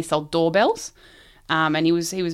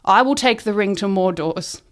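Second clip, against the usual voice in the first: slightly raised, declaiming volunteer; mock heroic cry; 3 semitones higher, 4 dB louder than usual. Salesman volunteering before grumbling co-workers, mock heroic cry. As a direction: proclaim it like a mild mock hero. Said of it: "Froyo stood up and cried".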